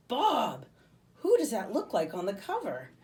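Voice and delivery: insistent discovery; urgent. A narrator's reading. Livy grabbing Bob's arm, urgent.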